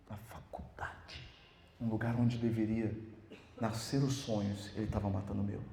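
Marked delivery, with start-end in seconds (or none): 0.1-1.3 slow unvoiced whisper. Real, not acted. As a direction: breathe "Na faculdade" in disbelief. Whispered bitter aside. (sussurrando, indignado)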